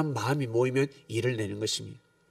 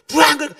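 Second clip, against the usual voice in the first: motorbike roar; 13 semitones higher, 12 dB louder than usual. Retold or imitated. Imitating motorbike noise.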